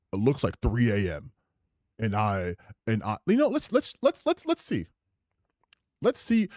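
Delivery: lightly voiced dopey guy; dumb guy voice. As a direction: play it like a clueless dope, pitch jumping around. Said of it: "my dumb guy voice".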